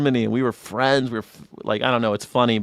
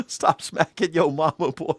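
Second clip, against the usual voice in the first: put-on Southern accent; 5 semitones higher than usual. Imitates Southern scolding.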